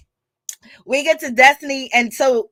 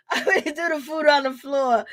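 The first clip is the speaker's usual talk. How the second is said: laughing; 7 semitones higher than usual. Real, not acted. Laughing fit while repeating threat.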